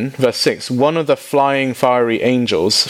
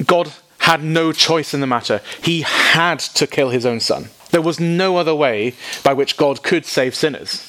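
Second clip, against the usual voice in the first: lightly raised preacher voice; a hint of a solemn preacher parodied; mocking other preachers, slightly raised; 5 semitones higher than usual. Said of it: "When preachers say".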